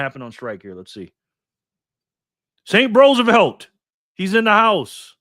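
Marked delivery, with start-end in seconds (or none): 2.7-5.2 loud, high, drawn-out announcement; slow, booming hype welcome; hyped shout-out. Real, not acted. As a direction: call it out big, like welcoming a star into the room. Hyped welcome to arriving viewer.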